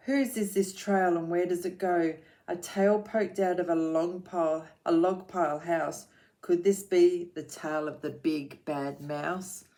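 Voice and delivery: put-on rhythmic read-aloud for children; lilting picture-book reading; story narration.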